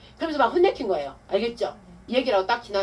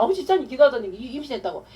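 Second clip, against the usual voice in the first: raised, louder excited quote; marveling at a miracle; 6 semitones higher, 7 dB louder than usual. Retold or imitated. Mother thanks deacon for the prayer, marveling excitedly. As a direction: imitate someone amazed by a miracle. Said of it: "기적이라고 막 그러면서".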